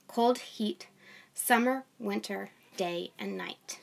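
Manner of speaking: steady, measured Bible reading voice; scripture reading. Acted. A mom reading Genesis to her online audience, measured reading. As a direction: read the passage aloud to the viewers.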